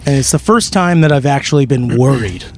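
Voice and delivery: strained, losing voice; speaking with a worn-out voice; hoarse voice. Real, not acted. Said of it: "I have no voice".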